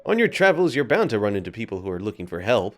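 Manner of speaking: chatty Welsh-lilted fairy guide, explaining; lightly voiced cheeky sidekick showing the ropes; Drippy-style guide voice. Reads Drippy's tutorial lines.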